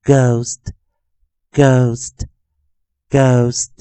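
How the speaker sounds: "ghost" drawn out with a long O. Shown as a demonstration. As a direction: model "ghost" slowly, silent H, long O. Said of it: "O念长元".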